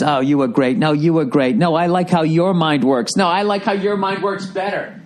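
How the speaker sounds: mock Hollywood flattery. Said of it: "we're all doing the Hollywood thing".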